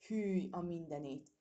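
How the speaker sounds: loud, slow yelp of disgust; startled outcry. Acted. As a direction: spit it out in shock. Squirrel tastes bitter chestnut.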